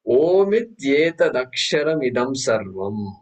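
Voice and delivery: slow, measured recitation of the Sanskrit mantra. Shown as a demonstration. Teacher reciting the mantra slowly to his students. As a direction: lay out each syllable of "Omityetadaksharam idam sarvam" slowly, like a chant. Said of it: "look at the first mantra".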